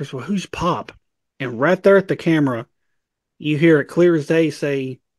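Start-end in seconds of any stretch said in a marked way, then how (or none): 0.1-0.9 soft, hushed stage half whisper. Retelling what a wife asked during a ghost hunt: imitating a half-whisper. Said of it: "my wife kinda whispers".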